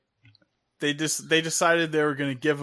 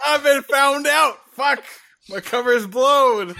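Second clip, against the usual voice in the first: laughing while speaking; words through a laugh; 11 semitones higher, 6 dB louder than usual. Real, not acted. Caught eating, laughing it off.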